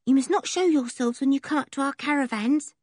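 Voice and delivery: mildly alarmed. A narrator's reading. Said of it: "looking suddenly alarmed".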